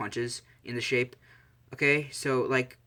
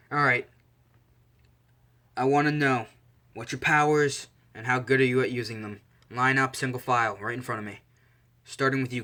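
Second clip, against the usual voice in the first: louder drill-instructor orders; commanding; 4 dB louder than usual. Acted. Izuku orders students to line up, loud command. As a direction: take charge of the group with more volume.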